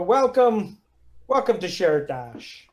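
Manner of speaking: put-on slow, rough Russian-accented welcome, first word pitched high. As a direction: greet them like a gruff Russian host, drawing it out slowly. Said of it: "he says in sort of rough, uh, uh, Russian sort of accent".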